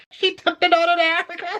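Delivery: high incredulous question; can't believe what you're seeing; disbelief. Retold or imitated. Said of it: "I'm just like".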